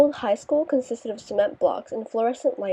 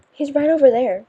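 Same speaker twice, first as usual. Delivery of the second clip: flustered excitement; 4 semitones higher, 7 dB louder than usual. A narrator's reading. Jane flustered spotting Charles.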